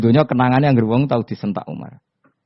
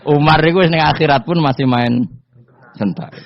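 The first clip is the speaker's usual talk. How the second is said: talking through laughter, louder; laughing; 6 semitones higher, 5 dB louder than usual. Real, not acted. Preacher amused by Umar, talking through laughter. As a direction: laugh as you explain.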